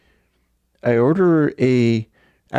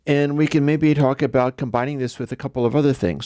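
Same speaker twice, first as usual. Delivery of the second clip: fast, higher breezy offer; casual bargaining; 4 semitones higher than usual. Retold or imitated. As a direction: toss off a friendly deal. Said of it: "I follow up and go".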